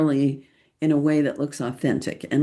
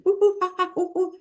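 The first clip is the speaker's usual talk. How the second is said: high playful monkey hoots; monkey noises; 14 semitones higher, much faster than usual. Retold or imitated. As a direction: hoot like a silly monkey to make kids smile. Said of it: "then I start going".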